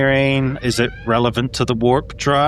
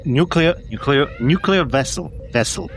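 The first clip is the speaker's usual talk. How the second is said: practising a bad Russian accent; terrible Russian; 4 semitones higher than usual. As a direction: try out a clumsy Russian accent. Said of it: "let's do terrible Russian".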